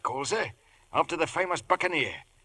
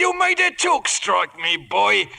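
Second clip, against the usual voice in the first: much higher, loud, laughing praise; delighted cheer; 8 semitones higher, 4 dB louder than usual. Acted. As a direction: cheer the boy on, thrilled and laughing. Parrot finally talks, Silver delighted.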